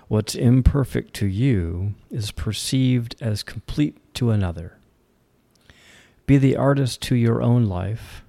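measured poetry reading with pauses between lines; poem recitation. Acted. Host reads an independent author's poem Artistry, poem recitation. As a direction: recite it line by line, deliberately.

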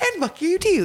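high, friendly mock send-off; nice. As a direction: say the insult as a sweet pleasantry. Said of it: "like, a nice, like".

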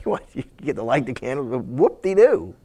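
low, soft mock-unimpressed; deadpan sarcasm; God teasing the priest, dry and sarcastic. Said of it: "And God's like".

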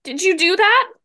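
high, loud panicked question; panicked and breathless; frightened. Acted. Terrified girls after the bang.

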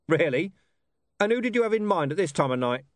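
high-pitched, brisk commander, a little loud; sceptical police commander. Acted. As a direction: challenge him sceptically and quickly.

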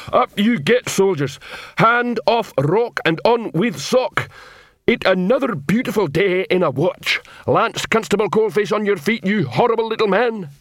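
high, loud parade-ground bellow; barking troll drill voice. Acted. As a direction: roar the wake-up call like a drill sergeant. Troll sergeant-voice wakes soldiers.

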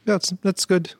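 high, giggly self-quote; laughing while quoting himself at the braai. Retold or imitated. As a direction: laugh through your own braai call. Retells own braai verdict laughing.

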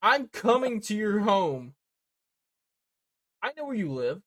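heavy breathing phone whisper; creepy stalker threat. Pretend. Menacing prank threat to listener.

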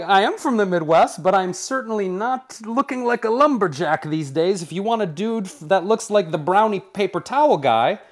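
loud, high-pitched mock protest; indignant retort. Comedian recounting his answer to the network's rejection, indignant.

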